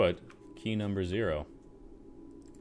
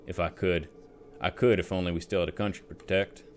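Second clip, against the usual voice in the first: put-on drunk soldier voice; faster than usual. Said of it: "rummy drunk soldier voice".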